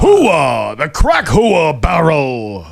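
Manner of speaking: slow drawn-out gung-ho yell; hammed-up Pacino announcer shout; Al Pacino impression. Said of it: "Al Pacino is doing the commercials".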